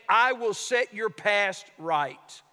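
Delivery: slow, solemn divine promise; each word weighed out slowly; voice of God. Acted. God promising Israel, slow and solemn. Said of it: "The Lord is saying".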